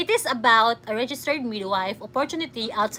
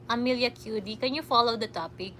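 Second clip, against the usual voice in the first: softer repeat; 3 semitones lower, 6 dB quieter, faster than usual. Real, not acted.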